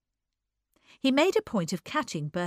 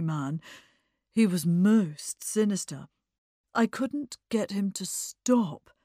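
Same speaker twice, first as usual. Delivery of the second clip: put-on lightly distressed young man. Eddie recounting his dreadful taxi ride, mildly distressed. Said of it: "in a state of acute distress".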